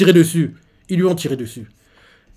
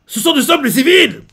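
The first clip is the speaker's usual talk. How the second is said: higher, louder outraged cry; indignant protest; 10 semitones higher, 5 dB louder than usual. Retold or imitated. Dragon protesting to his commander about the civilians, outraged.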